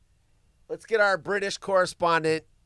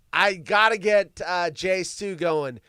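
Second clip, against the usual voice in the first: normal talking voice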